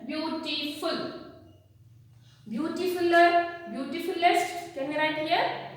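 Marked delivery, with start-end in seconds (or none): 0.1-1.1 slow, careful "Beautiful"; teacher sounding it slowly; slow modelling. Shown as a demonstration. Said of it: "So how you should write here?". 2.5-4.7 wrong form shown. Shown as a demonstration. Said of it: "No, it is the wrong way".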